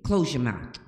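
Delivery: firm parental order with a little bass; firm low command. Shown as a demonstration. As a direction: give the command firmly without yelling. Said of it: "put a little bass on my tone".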